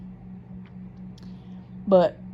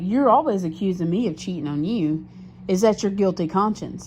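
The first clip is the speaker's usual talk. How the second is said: louder, sharper accusing voice; accusing retort; 3 semitones higher, 3 dB louder than usual. Retold or imitated. Retold to viewers, she accuses her boyfriend, louder. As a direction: throw the accusation back at him.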